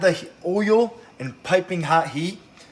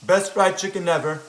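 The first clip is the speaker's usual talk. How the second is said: mouth full; 4 dB louder than usual. Real, not acted. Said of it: "I'm talking with my mouth full".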